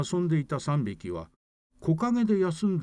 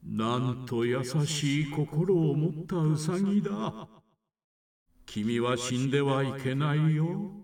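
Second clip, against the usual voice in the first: slow solemn god; slower than usual. Acted. God speaks to rabbit.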